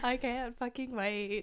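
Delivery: slow, stretched-out excitement; savouring the thrill; excited anticipation. Real, not acted. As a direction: drag out every word with anticipation. Thrilled about the tickets.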